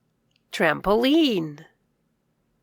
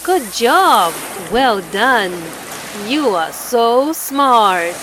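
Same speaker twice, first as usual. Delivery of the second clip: louder, cheering; loud praise; 4 dB louder than usual. Real, not acted. Teacher cheering the child for reading well.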